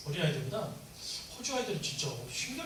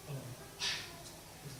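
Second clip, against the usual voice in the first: weary sigh; 5 semitones lower, 11 dB quieter, much slower than usual. Retold or imitated. Grown child sighing at nagging.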